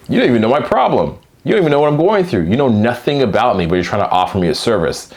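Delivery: rising, quickening indignant comeback; mock exasperation at a pushy seller; answering an unwanted sales DM, annoyed; annoyed retort. Acted annoyed reply to DM.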